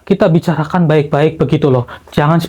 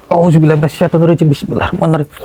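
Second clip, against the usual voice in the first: rapid prayer; faster than usual. Acted. Exorcist begins his invocation.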